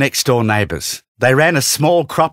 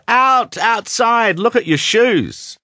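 narrated dad's yell, raised in pitch; 11 semitones higher, slower than usual. A narrator's reading. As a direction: order them out in a restrained storybook yell.

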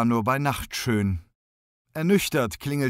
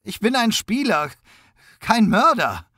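high, loud desperate cry; loud, high protest of a frightened suspect; cried out; 11 semitones higher, 6 dB louder than usual. A narrator's reading. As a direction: shout your innocence. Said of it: "rief er noch aus".

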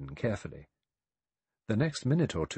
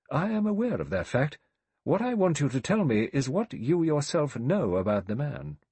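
higher-pitched judicial insistence; insistent questioning; 6 semitones higher, 4 dB louder than usual. A narrator's reading. Judge presses Rogers about Mister Owen, insistent. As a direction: press the witness firmly. Judge cross-examines the butler.

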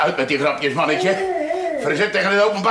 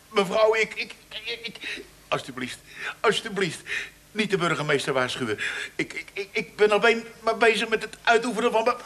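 stammering plea; 3 semitones higher, 4 dB quieter than usual. Acted. Policeman begs the baroness.

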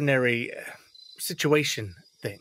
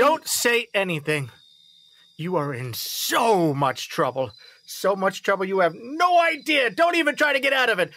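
put-on firm, rising scold of a caught kid; stern scolding; 5 semitones higher than usual. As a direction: lay into her, getting faster. Father scolding caught daughter.

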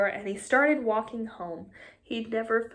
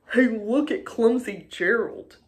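mocking taunt; 4 dB louder than usual. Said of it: "the animals all laughed".

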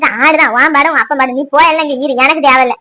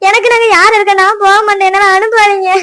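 crying; 5 semitones higher than usual. Acted. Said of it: "அப்படி அழுது கிடக்க".

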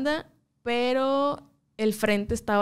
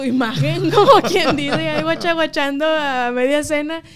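loud, higher-pitched laughing speech; 5 semitones higher, 9 dB louder than usual. Real, not acted. Singer laughing at herself mumbling English mid-dinner, laughing as she talks. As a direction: talk through a big laugh.

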